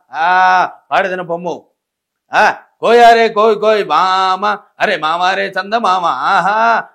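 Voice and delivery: lightly voiced stately old-film grandee, mildly theatrical; a hint of a grand classic-era Telugu actor; SV Ranga Rao impression. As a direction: address the boy like a regal screen villain, lightly done. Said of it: "SV రంగారావు గారి voice చాలా గంభీరమైనటువంటి voice".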